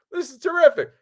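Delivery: very high, hammed-up gushing; over-eager relief. Relieved director answers the actress's praise, over-eager relief. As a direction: gush it loudly, far above normal pitch.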